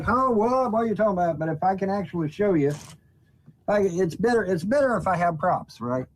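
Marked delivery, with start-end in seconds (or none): 0.0-1.4 high, puzzled mock reaction; confused listener. Explaining flat earth on camera, viewers mockingly confused. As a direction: play a baffled viewer lost in the talk. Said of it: "people will be like".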